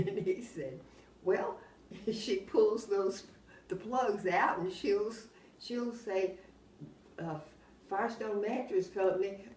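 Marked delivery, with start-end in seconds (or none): 1.2-9.5 laughing through it. Real, not acted. Laughing while retelling the manager.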